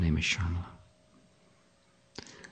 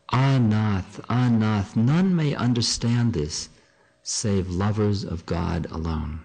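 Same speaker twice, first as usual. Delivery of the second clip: measured, fervent literary read-aloud; devotional dramatic reading; 4 semitones higher, slower than usual. Acted. Gopi confessing love of Krishna to husband, devotional reading. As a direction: read it as the gopi's heartfelt confession. Reads the gopi's speech aloud.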